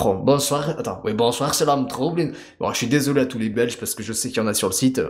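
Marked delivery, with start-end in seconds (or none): 0.0-2.3 mock Belgian French accent; l'homme trouble, Belgian accent. Introducing the game character to viewers, mock Belgian accent. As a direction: put on a hammy Belgian accent. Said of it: "Avec son accent belge".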